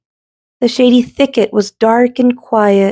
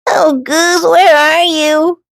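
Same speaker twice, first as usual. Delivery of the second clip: sad; 9 semitones higher, slower than usual. Acted. Duck missing friend.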